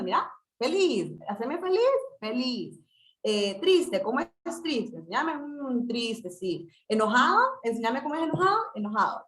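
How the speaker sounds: put-on sing-song questions to a small child; playful teaching to a toddler. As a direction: coax a toddler to show feelings. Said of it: "uno le puede ir diciendo". (madre que juega con su niño pequeño)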